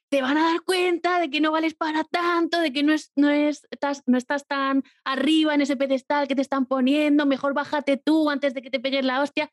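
voz crítica imitada, más aguda; voz crítica interna. Retold or imitated. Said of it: "mi voz crítica está como en un concierto de heavy". (voz crítica interna, más aguda y algo más fuerte)

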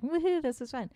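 mock drunken cheer. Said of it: "so we, like".

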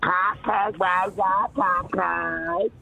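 sassy drag queen. Acted. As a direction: taunt it with sass. Sing-song taunting.

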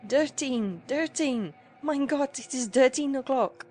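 high, alarmed cry of dismay; panicked old men. A narrator's reading.

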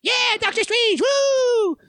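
high-pitched mock cheering; obnoxious heckler yell. Imitating a jackass in the front row, yelling. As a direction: whoop it like an overexcited fan. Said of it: "who yells out things like".

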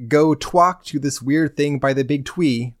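slow mock baby talk with W for R. Player quoting the little Taru Taru guide, mock baby talk. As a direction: imitate a small child's lisping speech, drawn out. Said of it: "talk in literal baby talk".

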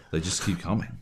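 bad acting. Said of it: "And he's like".

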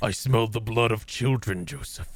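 hungry beast growling for blood; hoarse starving cold whisper. Pretend. Voicing Baby Dragon as monster.

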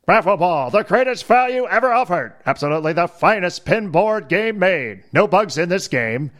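put-on old-timey announcer reading an ad. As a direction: read it like a 1930s advertisement. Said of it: "Can you read this in your old-timey voice?".

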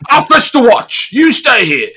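guard fussing over the wounded hero, high and loud; concerned guard. Acted. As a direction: flap about like a worried servant. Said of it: "he's very concerned about you".

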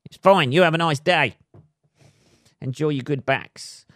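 sarcastic farewell. Retold or imitated. Ranting vlogger mocks movers who refused the stairs, in sarcastic high cheer. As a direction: sing it sweetly while seething underneath.

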